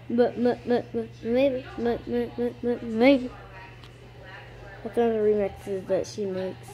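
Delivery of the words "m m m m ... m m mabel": stuttered name remix; Mabel remix. Acted. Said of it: "I'm gonna do Mabel".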